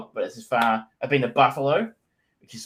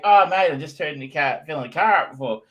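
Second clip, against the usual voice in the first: put-on slightly louder, broadened Aussie accent; more Australian; 4 semitones higher, 4 dB louder than usual. Visitor answering a local while filling the hire car, playfully heightened Australian accent. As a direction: lay on the Australian a little thicker. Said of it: "significantly more Australian".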